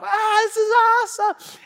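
high, loud hammed-up whoop; overdone enthusiasm. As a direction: overdo the thrill for the kid. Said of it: "overdoing it".

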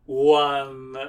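lightly voiced counting count. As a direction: count it out with slow drama.

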